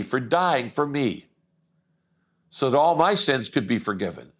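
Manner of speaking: earnest model prayer, measured with long pauses; sample prayer. Shown as a demonstration. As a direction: lead the listener in a prayer phrase by phrase. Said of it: "say something like this".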